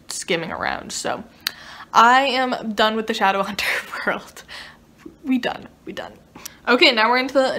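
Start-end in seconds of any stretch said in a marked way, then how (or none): 1.9-6.1 whispering. Real, not acted. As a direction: whisper your goodbye, finished. Quiet sign-off to series.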